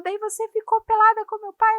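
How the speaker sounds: high, loud imitation of a daughter; shocked child. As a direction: question mom in mock disbelief. Daughter's shocked question acted out.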